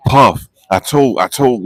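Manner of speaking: ordinary delivery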